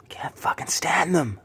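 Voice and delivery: a bitter whispered aside; disgusted whisper. Real, not acted. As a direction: hiss it under your breath in disgust. Disgusted aside about greedy people.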